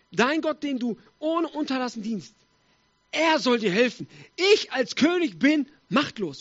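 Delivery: a touch of helpless despair; desperate king. Acted. Powerless king to Daniel, in mild despair. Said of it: "der König verzweifelt".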